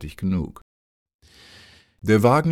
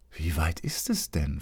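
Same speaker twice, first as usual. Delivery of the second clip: put-on a boy quietly asks his companion, whispering; whispered question; 6 dB quieter than usual. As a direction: whisper it, softer.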